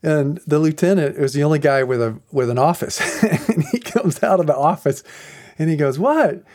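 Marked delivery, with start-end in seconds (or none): 6.0-6.4 high-pitched answer to a yell; imitated curt response. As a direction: answer a summons as the interrupted boss. Lieutenant answers being yelled for.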